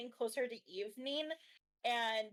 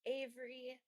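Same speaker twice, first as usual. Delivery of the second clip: light airy voice; slower than usual. Acted. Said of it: "a nice, light, airy voice".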